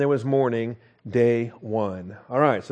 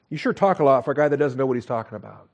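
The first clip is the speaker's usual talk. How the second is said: sanctified sarcasm; faster than usual. Acted. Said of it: "sanctified sarcasm".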